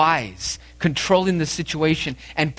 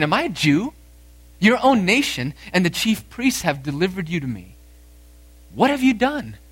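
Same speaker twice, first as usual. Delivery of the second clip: mildly frustrated retort, rising pitch at the end; frustrated Pilate; 4 semitones higher than usual. Acted. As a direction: push back in acted frustration. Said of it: "in frustration".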